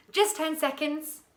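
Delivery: high, loud and excited; urgent, excited boy's cry. A narrator's reading. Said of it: "cried Milo excitedly".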